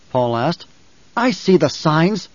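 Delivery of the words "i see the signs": mildly sharp, slow, higher-pitched rebuke; snapped retort. Acted. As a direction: put him in his place, pitched up. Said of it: "Jessica snapped".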